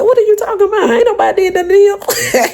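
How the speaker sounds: high, playfully defensive; mock innocent. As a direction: play innocent, a bit high. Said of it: "I said".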